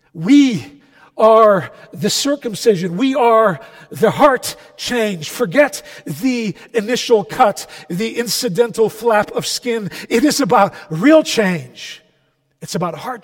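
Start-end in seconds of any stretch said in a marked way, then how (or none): 0.1-12.0 emphatic sermon, stretching the key words; impassioned preaching. Real, not acted. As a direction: drive each point home to the congregation. Preaches at full force.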